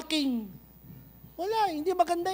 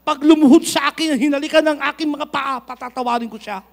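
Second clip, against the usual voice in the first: proud unforgiving; 7 dB louder than usual. Retold or imitated. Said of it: "bigat pa ng ating ano".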